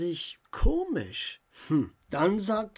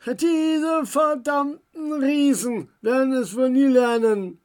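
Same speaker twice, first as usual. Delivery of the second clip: higher, louder angry grumble at the giants; scolding; 7 semitones higher, 7 dB louder than usual. A narrator's reading. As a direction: curse the clumsy giants. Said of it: "schimpfte sein Onkel".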